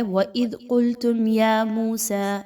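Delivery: قُلْتُمْ يَا with the م said quickly and no pause before يَا; slow demo of قُلْتُمْ يَا مُوسَى, flowing straight on; teacher models izhar on the م of قُلْتُمْ; clear meem. Shown as a demonstration. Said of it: "میم ساکن پر بالکل بھی نہیں رکنا".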